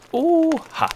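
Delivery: high, loud delighted cry; delighted exclamation. A narrator's reading. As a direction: burst out in delight. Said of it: "rief der Gnom entzückt". (entzückter Ausruf)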